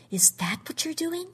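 high, breathless whisper. A narrator's reading. Jean whispering her suspicion to Sumner. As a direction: whisper it in shocked disbelief. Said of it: "she whispered".

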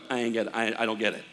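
low, lightly voiced puzzled stranger; confused listener. Pastor voicing the puzzled stranger being witnessed to, mildly confused. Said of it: "the person just looks at you going".

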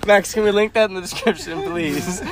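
words through laughter; laughing. Real, not acted. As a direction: still giggling while asking. Laughing fit continues.

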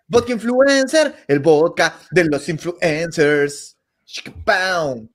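slow, drawn-out sponsor plug; mock ad read. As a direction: sell it like a cheesy commercial. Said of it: "una mención por hora". (anuncio publicitario lento)

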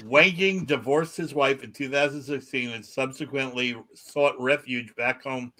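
measured article read-out; news story read aloud. Acted. Podcast host reads odd news to co-hosts, news read-out.

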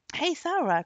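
high, loud summons; crying out. A narrator's reading. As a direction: call for your servant. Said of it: "cried the archer".

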